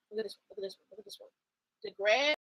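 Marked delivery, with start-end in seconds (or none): 0.1-1.3 fading repeat. Real, not acted.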